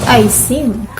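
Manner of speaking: "think" as "sink", the S again; wrong s sound. Shown as a demonstration. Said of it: "It's not".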